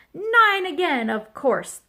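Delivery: high, loud gloating shout, dropping at the end; screamed answer. A narrator's reading. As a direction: scream it as if obvious. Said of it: "Thistle screamed".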